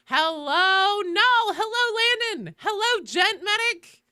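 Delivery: high, loud sing-song hellos; roll call greetings. Real, not acted. Streamer doing a Twitch roll call, high sing-song. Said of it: "let's do a Twitch roll call".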